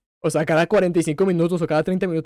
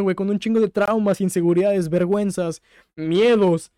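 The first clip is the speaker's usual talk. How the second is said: high, tearful, emotional voice; still choked up; 5 semitones higher, 4 dB louder than usual. Real, not acted. Recounting how the boy forgave himself, choked up. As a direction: push through the tears, moved. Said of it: "Estoy llorando".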